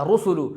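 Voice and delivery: रुसुलु with three short closed 'u' vowels; quick rounded u's in रुसुलु; maruf, correct way. Shown as a demonstration. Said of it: "ये सही तरीका". (रुसुलु मारूफ, बिना खींचे)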